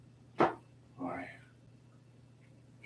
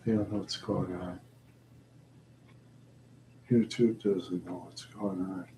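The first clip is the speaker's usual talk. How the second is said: normal talking voice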